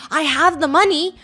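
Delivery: insistent tenant. Retold or imitated. Tenant loudly insisting to the landlady he'll pay. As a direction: talk her into waiting, loud and urgent. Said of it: "Some people are like".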